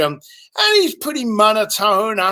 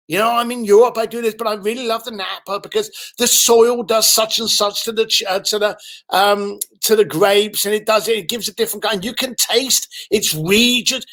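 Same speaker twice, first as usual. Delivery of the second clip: imitated wine lover gushing on, raised pitch; very excited; 3 semitones higher than usual. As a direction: ramble eagerly, carried away by the topic. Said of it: "Very excited".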